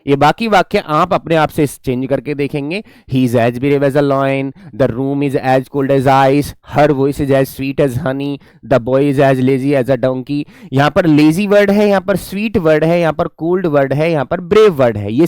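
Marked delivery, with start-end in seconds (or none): 3.1-10.4 slow, deliberate reading of the exercise sentences; slow classroom reading aloud; slow example reading. Shown as a demonstration. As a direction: read each sentence slowly for the class. Reads example sentences for practice.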